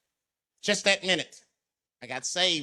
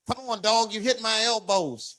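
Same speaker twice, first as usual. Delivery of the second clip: annoyed complaint; 5 semitones higher than usual. Retold or imitated. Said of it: "I had to say something".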